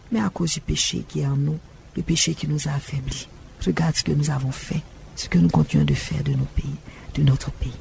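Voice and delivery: prière solennelle adressée à Dieu; prière fervente. Acted. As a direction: prie pour le pays avec ferveur. Prière publique du prédicateur. (le prédicateur prie pour le pays devant l'assemblée, voix de prière)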